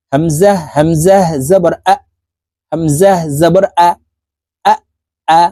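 slow, measured letter-by-letter recitation; spelling drill. Shown as a demonstration. Teacher spelling syllables for learners, slow measured drill. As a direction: spell it out, then blend the syllables.

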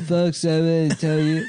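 lightly done Trump voice; a hint of Trump's rally cadence; Trump impression. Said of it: "Oh, retard Trump".

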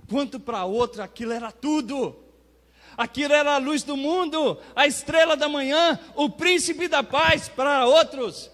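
loud, high preacher's proclamation; impassioned preaching. Real, not acted. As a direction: preach it at full force, ringing out each title. Preaches at full force. (pregação inflamada em voz alta)

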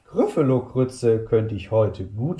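lauter und schneller, drohend; gieriger Hunger. Acted. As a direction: droh dem Grüffelo genüsslich. Maus droht dem Grüffelo. (Maus droht lauter dem Grüffelo)

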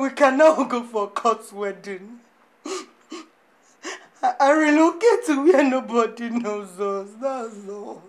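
faltering, with a hint of crying; mild crying as she begs him; tearful plea. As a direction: plead while fighting tears. Woman pleads through tears.

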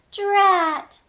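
high, loud frustrated cry; angry mummy. Acted. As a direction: wail it out in defeat. Mummy fails to pull.

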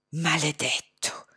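slow unvoiced hiss; venomous hissed curse. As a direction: spit "Maledetto" out in a slow whisper. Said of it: "sibilò Hussain".

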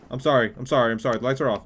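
loud, hurried mock pleading; panicky apology. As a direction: apologize urgently to the monster. Pleading with the game's animatronic.

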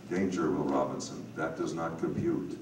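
a low-key, Hal-like computer voice, lightly done; Scourby-style narrator. Retold or imitated. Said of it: "I'm doing my best Scourby imitation".

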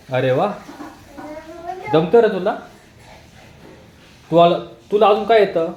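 high, loud delighted praise; excited praise. Real, not acted. Praising child's dancing.

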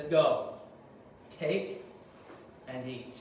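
soft, hushed tempting voice; whisper-like coaxing from the devil; the devil's quiet invitation, gentle and low; still small voice. Retold or imitated. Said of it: "and in a still small voice".

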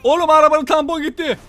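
high, loud shocked shout; loud, high burst of alarm; startled yell. Real, not acted. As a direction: cry out at the crash. Sudden crash in game.

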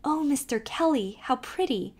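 high, delighted exclaiming; girl thrilled by a present; delighted cry. Acted. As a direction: gasp with delight at the gift. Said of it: "she cried".

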